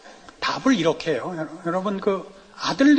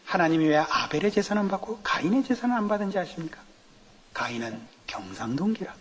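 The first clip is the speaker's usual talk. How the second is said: imitating a Gyeongsang pastor preaching; light mock Gyeongsang sermon; Gyeongsang dialect; 5 dB quieter than usual. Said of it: "경상도 분 목사님".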